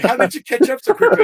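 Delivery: mock amazement. Retelling a friend's shocked question, loud mock amazement. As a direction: throw the friend's question out big.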